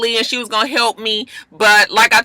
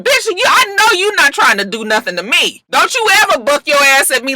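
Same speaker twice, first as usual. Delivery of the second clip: mock angry threat; 4 semitones higher than usual. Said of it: "'Cause now Nia is even".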